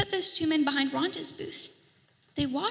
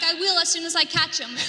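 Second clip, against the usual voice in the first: laughing call; 3 semitones higher than usual. Retold or imitated. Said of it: "someone up ahead called back".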